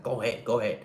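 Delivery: hurried "Go ahead, go ahead," pushing the other driver; brisk impatient wave-through; rushing them along; rushed go ahead. Shown as a demonstration. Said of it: "feels like you're rushing them".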